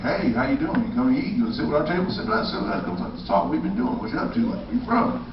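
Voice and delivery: high, loud eager welcome; excited greeting. Retold or imitated. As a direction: gush like a friendly camper. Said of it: "everybody's like".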